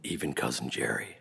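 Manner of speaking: laughing disbelief. Retold or imitated. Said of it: "and she goes".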